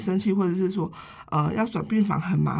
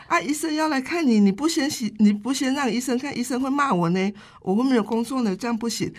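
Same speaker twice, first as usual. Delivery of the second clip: higher, lively mock pleading with a laugh; retold playful pleading; 5 semitones higher than usual. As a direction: coax the old lady, half laughing. Retells herself pleading with grandma.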